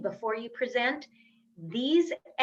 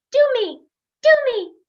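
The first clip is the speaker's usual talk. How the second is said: high, loud playful squeal; mock scream; 13 semitones higher, 11 dB louder, faster than usual. Coach voicing the neglected other foot, mock scream. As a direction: cry out high like a clamoring foot. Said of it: "is screaming at you".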